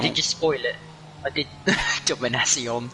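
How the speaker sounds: domination said the French way, stress at the end; bad mock French accent. Shown as a demonstration. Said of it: "I am terrible at a French accent".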